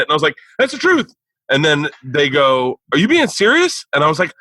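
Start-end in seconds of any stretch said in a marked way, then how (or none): 0.6-1.1 high-pitched mock plea; imitating your own desperate protest; pleading innocence. Pleading innocence to angry crowd. 2.9-3.8 high-pitched disbelief; mock astonishment; incredulous question. Crowd's disbelief acted out.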